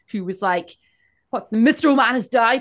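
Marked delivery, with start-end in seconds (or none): 1.3-2.6 mock, big, loud, booming bellow. Recounting news that the Mithril Man has died: imitating Gaston Dufrost's bellowing shout. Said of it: "it was Gaston Dufrost who was shouting".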